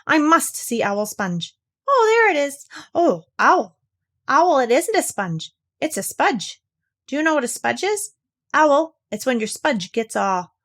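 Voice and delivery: put-on high, eager child's voice; excited little Roo. A narrator's reading. Roo gleefully teasing Owl about his sponge, high and eager. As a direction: squeal it like a thrilled small child.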